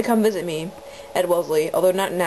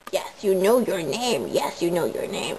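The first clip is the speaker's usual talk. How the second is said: grandma voice; 3 semitones lower than usual. Shown as a demonstration. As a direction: coo like a grandma to a pet. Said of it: "Is that grandma enough?".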